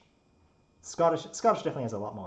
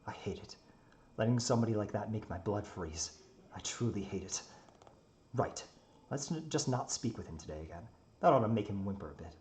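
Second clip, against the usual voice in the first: in-character story narration. A narrator's reading.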